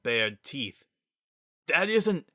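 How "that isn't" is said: 1 protesting. Acted. Sans cut off protesting.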